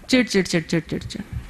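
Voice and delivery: fast, soft, grumbling chid-chid sounds; irritated chattering. Retold or imitated. Teacher mimics an irritated person for the class, fast muttered grumble. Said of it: "irritation".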